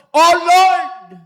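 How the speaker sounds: malakas na pagsigaw sa Panginoon; sigaw. Retold or imitated. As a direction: isigaw nang buong lakas, mataas. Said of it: "napasigaw po ako". (malakas na sigaw ng "Oh Lord!")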